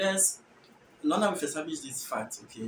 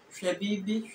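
Fanti "Hwebibi", lifted; Fanti accent; 3 semitones higher than usual. Shown as a demonstration. Teacher comparing accents side by side, Fanti accent. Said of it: "variation in accent".

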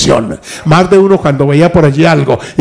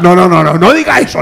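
pleading wife. Retold or imitated. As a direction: plead like a wife refusing his excuse. Wife urging husband, pastor retells.

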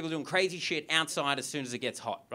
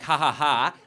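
mock laugh demand; 5 dB louder, slower than usual. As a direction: fake "ha ha ha" then a blunt demand.

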